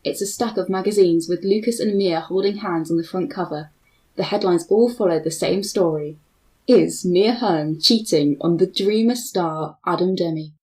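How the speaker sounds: measured read-aloud of stage directions; screenplay narration. Acted.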